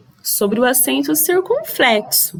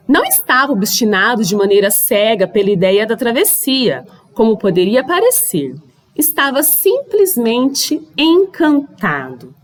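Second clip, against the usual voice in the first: animated, deliberate read-aloud with lively emphasis; narrative reading aloud. A narrator's reading. Teacher reading a sailor's travel account to pupils, expressive narration.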